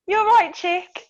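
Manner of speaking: high, slow Black Country lilt; put-on Black Country singsong; Black Country greeting. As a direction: draw out a mock Black Country hello. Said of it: "Black country, Bab and chick".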